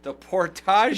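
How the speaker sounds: Portagers as por-TAH-zhers; Frenchified Portagers, stress on TAH; French-style pronunciation. Retold or imitated. Echoing the French-style name.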